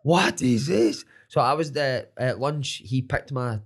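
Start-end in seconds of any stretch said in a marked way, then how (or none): 0.0-1.0 slow, louder outraged question; stunned louder repeat. Retold or imitated. Coach shocked by weight.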